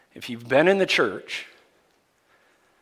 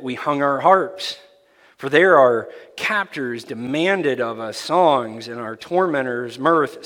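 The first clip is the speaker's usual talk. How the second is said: louder, solemn Bible reading from the pulpit; scripture reading; 4 dB louder than usual. Acted. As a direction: proclaim the psalm to the congregation. Reads scripture aloud.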